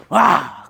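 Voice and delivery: a sudden loud high shout; imitated scream. Imitating the cellmate jumping up with a loud scream. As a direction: leap up with a yell. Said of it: "Comme ça, en faisant comme ça".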